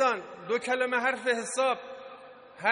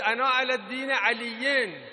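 raised, declaiming voice; retold battle cry; 2 semitones higher, 5 dB louder than usual. Nafi declares his faith on the battlefield, retold cry. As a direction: proclaim it as a preacher retelling a battle cry. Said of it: "فریاد زد".

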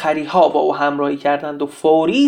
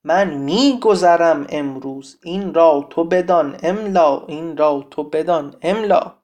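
epic poem recital; 4 dB louder, slower than usual. Acted. Teacher recites Siavash's poem to the class, epic declamation. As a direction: declaim it in a measured, emphatic metre.

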